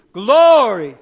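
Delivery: belted loud Glory. Shown as a demonstration. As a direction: shout Glory like you really mean it. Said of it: "Say it louder".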